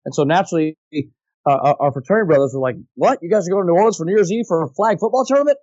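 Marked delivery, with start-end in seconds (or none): 3.0-5.6 raised, eager imitation of the buddies; mildly incredulous, then jumping right in; excited retelling. Fraternity brothers hearing of a New Orleans trip, excited.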